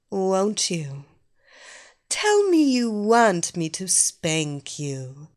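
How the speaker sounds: loud teasing mistress voice; commanding dominatrix. Acted. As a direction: lord it over him, taunting. Evelina scolds her captive.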